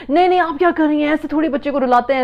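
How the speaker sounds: high, loud, fast scolding; scolding relative. Retold or imitated. Grandparent scolding mother for letting child cry, high loud fast protest. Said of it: "मामू ने देख लिया, तो".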